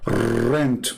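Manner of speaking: "Rent." with a rolled Russian r; Russian-accented "Rent." with a trilled r. Shown as a demonstration. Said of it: "This is how they say it in Russia".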